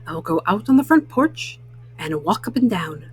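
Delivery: mild pondering toad, barely shifted; lightly voiced Toad. Toad speaks while thinking.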